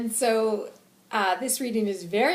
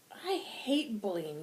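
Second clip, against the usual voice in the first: slow, emphatic outrage; passionate anger; 2 semitones higher, 3 dB quieter, slower than usual. Acted. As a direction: draw it out with heated conviction. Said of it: "he's just very passionate about it".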